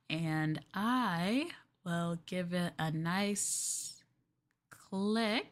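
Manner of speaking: slow teasing whisper. Acted. A girlfriend closing the cuffs, slow teasing whisper. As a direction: stretch it out in a whisper.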